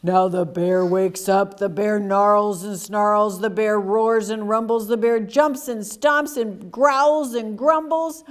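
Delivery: put-on measured, building menace for young listeners; dramatic story narration. A narrator's reading. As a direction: drum out each verb as the bear rouses. Reads the bear's angry waking.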